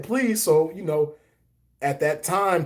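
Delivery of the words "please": put-on high, childish kid voice; imitating himself as a kid. Boy asking grandma for Tiffany, childish voice. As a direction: say please like a young boy. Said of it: "And I said".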